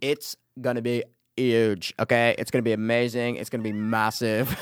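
a hint of Trump bragging; Donald Trump impression. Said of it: "He does Donald Trump".

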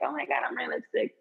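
high, giddy replay of own excitement; mock thrill. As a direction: squeal it lightly, imitating your excited self. Voices her thrill at wearing lipstick.

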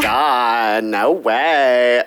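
put-on Valley Girl accent. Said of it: "my Valley Girl accent".

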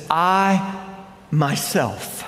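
I myself, I stressed; emphatic. Shown as a demonstration. Preacher showing Jesus's promise, stress on I myself. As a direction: lean on I myself. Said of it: "It's emphatic".

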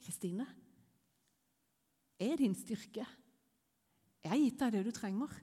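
gentle, unhurried reassurance with pauses; calm, tender words of strength; Jesus, reassuring. Retold or imitated. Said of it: "Det var akkurat som Jesus bare la hånda på skuldra mi og sa".

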